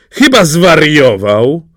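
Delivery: loud, high, slow outcry; indignant princess crying out; outraged exclamation. A narrator's reading. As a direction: exclaim in drawn-out disbelief. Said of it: "zawołała księżniczka".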